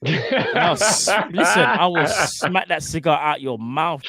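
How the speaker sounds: mock threat through laughter; slow, giggling threat; laughing threat. Real, not acted.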